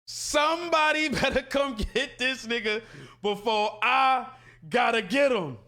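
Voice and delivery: mock yelling. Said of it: "I did the same thing".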